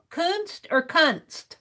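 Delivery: Kunst with long oo, then Kunst with short uh. Shown as a demonstration. Streamer asks chat how to say art, carefully comparing. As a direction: compare two vowels in Kunst slowly. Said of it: "And is it a long U".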